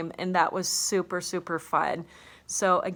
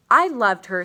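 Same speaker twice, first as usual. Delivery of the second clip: loud, pained insistence; loud protest; 3 semitones higher, 10 dB louder than usual. Acted. Father answering his son's accusation, a loud pained protest. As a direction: push back hard on the son. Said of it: "said the father".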